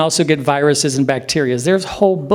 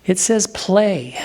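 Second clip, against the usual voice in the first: "play" set apart, slow and drawn out; slow down and land on "play"; stress on play; 4 semitones higher, much slower than usual. Shown as a demonstration. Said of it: "Many people would emphasize that".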